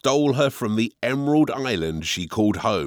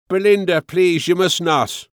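urgent plea; 7 semitones higher, 5 dB louder than usual. A narrator's reading. Husband stops weeping wife.

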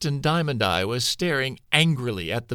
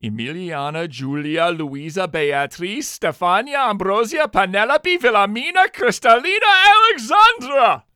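names rising higher and louder; building shout; 9 semitones higher, 6 dB louder than usual. Acted. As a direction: start calm, build to a bellow. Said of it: "King Robert shouted".

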